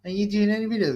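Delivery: imitating caller. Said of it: "He said".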